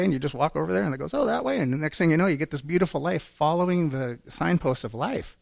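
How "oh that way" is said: high, bright little "oh, that way"; mock surprise. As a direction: play the pleasant discovery of direction. Signpost story, surprised retelling.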